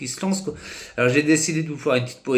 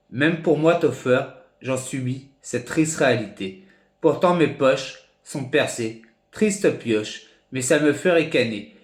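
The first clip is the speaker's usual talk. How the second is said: measured slam recitation in short phrases with pauses between; poem reading. Real, not acted. Amateur poet reads his own poem to his followers, measured recitation. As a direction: recite your own poem line by line, deliberately. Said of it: "je vais vous lire la poésie".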